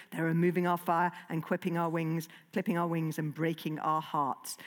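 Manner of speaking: understated ominous dragon prophecy; menacing dragon. Acted. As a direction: warn of the end like a doom-laden dragon. Dragon Furious speech read in character.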